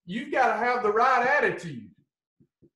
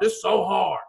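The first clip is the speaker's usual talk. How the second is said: mock whine; 3 semitones lower than usual. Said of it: "I hear it every day".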